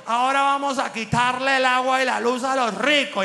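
loud menacing announcement; threatening politician. Retold or imitated. President threatening the rich, loud mock threat. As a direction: threaten like a caudillo. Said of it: "amenazando a todo el mundo".

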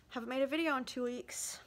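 out of breath from stairs; winded from running downstairs. Real, not acted. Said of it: "Sorry, I'm out of breath".

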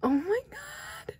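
very high, soft, slow teary gasp of joy; overwhelmed. Real, not acted. Fan holds the photo card she wanted most, teary and squeaky. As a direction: whisper it high, close to tears. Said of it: "I'm currently gonna cry".

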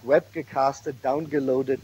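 "webgecasted, downgeloaded" with German "ge" inside, "guh"; English stems in "webgecasted, downgeloaded" inflected and pronounced the German way; Germanized English pronunciation. Shown as a demonstration. Lecturer giving examples of mixed words, "webgecasted, downgeloaded" in a German accent. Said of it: "pronounced in a German way".

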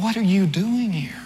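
mock-outraged owner; startled homeowner. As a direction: catch the intruder red-handed. Homeowners confront intruder in story.

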